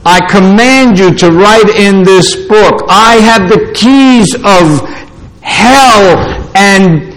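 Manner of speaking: firm, measured scripture proclamation; lightly voiced divine command; great trumpet-like voice. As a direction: declare it solemnly, slowing heavily on the final words. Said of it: "a great voice as of a trumpet".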